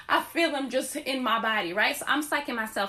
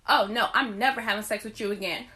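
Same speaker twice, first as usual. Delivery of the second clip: laughing refusal; 3 semitones lower than usual. Retold or imitated.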